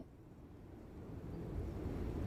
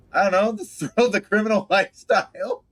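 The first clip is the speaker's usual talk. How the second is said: high, loud theatrical pitch; mock dramatic; 11 semitones higher, 6 dB louder than usual. Player pitching the criminal lifestyle to a driver, mock dramatic. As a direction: push it up high and loud, half laughing. Plays out the drama dialogue option.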